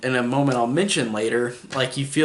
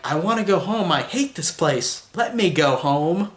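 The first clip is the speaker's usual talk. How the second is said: put-on enunciating little girl; 4 semitones higher than usual. Vlogger mimicking a bratty camp girl, stiff and over-enunciated. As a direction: mimic the bratty girl's stiff line reading. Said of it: "she really enunciates every word that she says".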